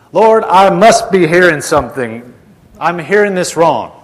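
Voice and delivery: retold baffled protest. Brother Hagin doubting his own hearing, imitated insistent bafflement. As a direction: protest as if your ears are failing you.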